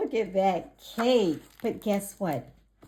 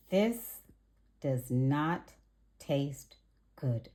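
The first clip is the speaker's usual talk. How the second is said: disappointed; 4 semitones lower, slower than usual. Acted. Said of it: "said Ruby".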